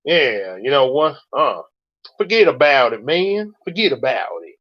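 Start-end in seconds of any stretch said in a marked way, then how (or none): 2.2-3.5 New York accent. Shown as a demonstration. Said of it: "I know some New York accents I've heard". 3.6-4.6 New York accent. Shown as a demonstration. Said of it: "I know some New York accents I've heard".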